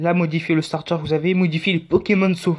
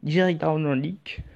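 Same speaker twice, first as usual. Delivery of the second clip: English accent attempt; slower than usual. Shown as a demonstration. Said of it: "j'ai pas vraiment l'accent anglais".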